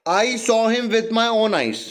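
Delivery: slow sentence, leaning on "own eyes"; stress on own eyes. Shown as a demonstration. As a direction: press hard on "own eyes", drawn out. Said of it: "अपनी आंखों पे जोर डाल रहा हूं". ("own eyes" पर ज़ोर देकर, धीरे)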